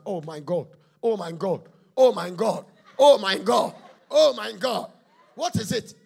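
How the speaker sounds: husband discovering burnt trousers, escalating to a shout; rising outrage. Acted. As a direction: build from a gasp to a furious shout.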